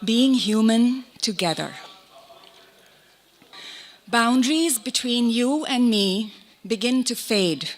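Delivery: measured poem recital with long pauses between lines; poetry reading. Acted. Poet reads on being human to an audience, measured recital. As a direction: recite it line by line, letting each image settle.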